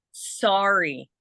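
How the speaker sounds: "sorry" with a rounded o; Canadian "sorry". Shown as a demonstration. Giving another word Canadians say differently, Canadian pronunciation. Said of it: "the way I say sorry is".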